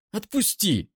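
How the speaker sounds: high, loud, near-screaming rage; screaming accusation at the brother's defender; furious scream. Acted. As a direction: hurls every word at him. Eira screams.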